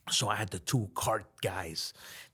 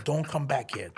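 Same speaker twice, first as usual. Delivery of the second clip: laughing warning; 4 semitones higher than usual. Retold or imitated. Telling woman off.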